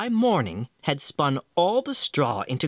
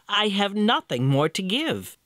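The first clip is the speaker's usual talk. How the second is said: despairing maiden; 7 semitones higher than usual. Acted.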